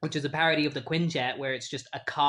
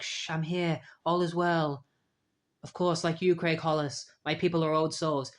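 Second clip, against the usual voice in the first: soothing. Retold or imitated. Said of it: "trying to soothe him".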